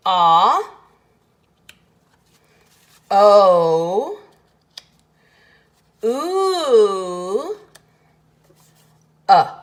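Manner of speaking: loud, long drawn ah, O, ooh, uh; vowel sounds of O. Shown as a demonstration. Teacher sounding out the four sounds of O. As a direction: sound out each vowel of O slowly. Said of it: "the sounds he says are".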